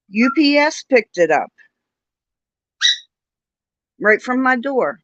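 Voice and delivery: mock-outraged high pet voice. Talking to bird Willow about package, high mock outrage. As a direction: play up being shocked the package never came.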